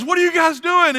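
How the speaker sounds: high, loud baffled devil; the devil can't believe what he sees; puzzled devil. Retold or imitated. Devil confronts Texans in joke.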